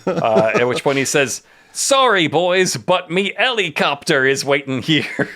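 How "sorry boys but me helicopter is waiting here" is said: hammed-up Cockney, pitched high; exaggerated Cockney with a slow, drawn-out finish; Mary Poppins Cockney. Comic book escapee taunts the cops in hammed-up Cockney. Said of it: "full Mary Poppins Cockney accent".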